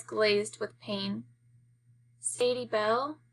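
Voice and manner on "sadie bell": whimper. Acted. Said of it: "she whimpers".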